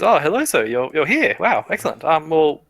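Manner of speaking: a hint of an eager guard; lightly voiced flustered guard; fawning guard. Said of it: "he goes".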